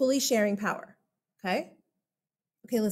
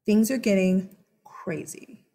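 whispering; 3 semitones lower than usual. Acted. Teacher building drama in story.

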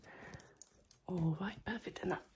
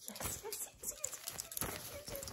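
excited; 8 dB quieter than usual. Real, not acted. Excited at finding gloves.

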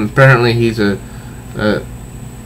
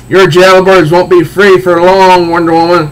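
higher, louder gloating villain voice; hammed-up comic-book villain taunt; 4 semitones higher, 4 dB louder than usual. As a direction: gloat over her. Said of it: "he goes on saying".

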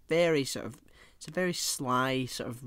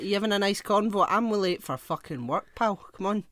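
mock impatience; 6 semitones higher, 4 dB louder than usual. Imagined late passenger scolding driver.

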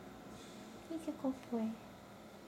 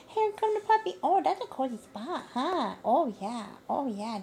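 talking to a dog; 5 dB louder than usual. Real, not acted. Baby talk to puppy.

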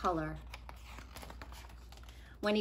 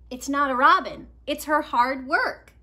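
put-on higher, louder eager boy; Nico explaining; 4 semitones higher, 9 dB louder than usual. Nico explaining his drawing to friends, eager and louder. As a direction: insist patiently.

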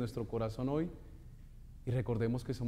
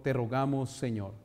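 prayer response. Shown as a demonstration. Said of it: "digámosle todos con fervor".

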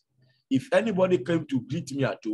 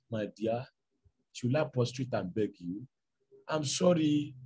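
soft apology; 5 dB quieter than usual. Acted. Husband softly apologizing to his complaining wife. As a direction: plead gently, backing down.

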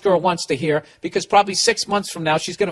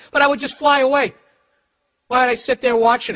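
laughing; 7 semitones higher than usual. Real, not acted. Laughs at his ghost joke.

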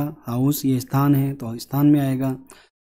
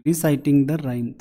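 slow reading aloud; much slower than usual. Shown as a demonstration. Reads instruction slowly.

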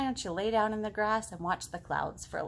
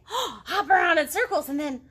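lively rabbit; 9 semitones higher, 8 dB louder than usual. Acted. Frog and rabbit voices.

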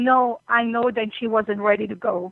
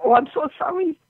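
real tears, higher voice; tearful, halting and raised in pitch; crying; 5 semitones higher than usual. Real, not acted. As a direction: apologise as the tears take over. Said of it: "I'm crying".

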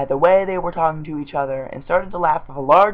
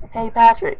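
calling out; 7 semitones higher, 6 dB louder than usual. Acted. Calling out to Patrick.

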